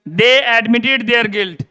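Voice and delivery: each word slow and separate, without "themselves"; slow dictation. Shown as a demonstration. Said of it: "अब देखो". (बहुत धीरे-धीरे, शब्द-शब्द बोलकर)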